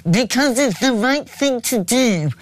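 slow, nasal mocking impression; Ed Miliband. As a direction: drag it out through the nose in mockery. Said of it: "that nasally voice going".

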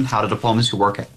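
usual speaking voice

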